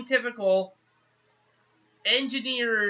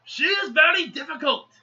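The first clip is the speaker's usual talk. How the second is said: retold yell; 7 semitones higher than usual. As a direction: imitate someone complaining up to the sky. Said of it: "He yelling up in the air".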